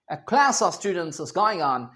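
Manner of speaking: slow American example sentence; measured American English, "klæs"; American accent. Shown as a demonstration. Teacher giving a class example, slow American accent. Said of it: "American English में".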